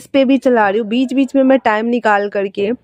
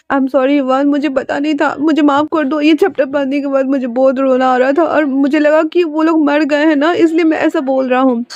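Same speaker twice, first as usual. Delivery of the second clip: higher, pleading, near tears; pleading apology; 4 semitones higher than usual. Acted. Jinling begs Yuvan's forgiveness on the phone, pleading higher. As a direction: beg forgiveness, voice lifted and anxious.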